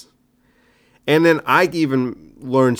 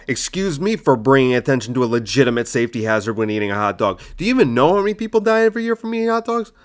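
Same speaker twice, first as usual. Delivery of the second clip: mad in character; 3 semitones higher, faster than usual. Shown as a demonstration. Comedian demonstrating the joke's worked-up ending, mad. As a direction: sell it like you're furious. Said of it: "But I'm mad and I'm, I'm in character and I'm selling it".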